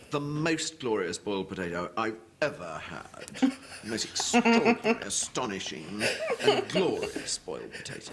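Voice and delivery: exaggerated posh gushing. Shown as a demonstration. Speaker demonstrating posh overstatement, exaggerated and gushing. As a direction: gush about the potato, hugely overdone. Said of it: "exaggerate enormously".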